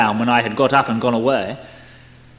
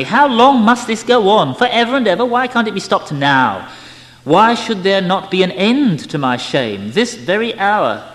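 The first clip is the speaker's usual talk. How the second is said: higher, louder anguished pleading; agonized outcry; 5 semitones higher, 4 dB louder than usual. A narrator's reading. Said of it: "I cried out in my agony".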